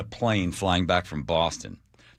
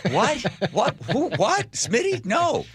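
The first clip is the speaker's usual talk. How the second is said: mock bewilderment; slower than usual. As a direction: act baffled and flustered. Mock confused reaction.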